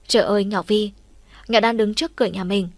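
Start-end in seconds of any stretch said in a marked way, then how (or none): none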